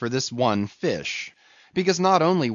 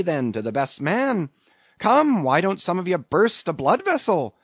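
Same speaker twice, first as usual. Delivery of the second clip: higher-pitched, rousing exhortation in bursts; crying to his crew; 6 semitones higher, 3 dB louder than usual. A narrator's reading. Stubb goading his rowers to beat the German, rousing cry. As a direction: goad them on, building in urgency. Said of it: "cried Stubb to his crew".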